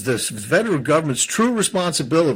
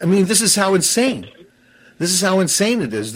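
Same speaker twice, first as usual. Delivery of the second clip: seething; 4 semitones higher than usual. Real, not acted. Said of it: "I'm seething".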